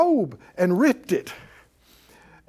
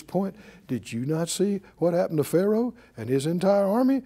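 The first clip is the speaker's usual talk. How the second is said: calm voice of faith; 4 semitones lower than usual. Acted. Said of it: "Faith goes".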